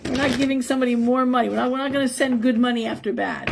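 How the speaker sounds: emphatic refusal. Retold or imitated. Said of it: "It's like".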